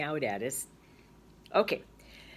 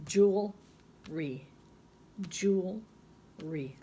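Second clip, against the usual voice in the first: sounding out syllables; much slower than usual. Shown as a demonstration. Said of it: "I think it has two syllables".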